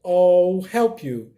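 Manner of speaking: teacher modelling the example; pronunciation demo. Shown as a demonstration. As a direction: say it slowly with a schwa in I'll. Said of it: "For, for example".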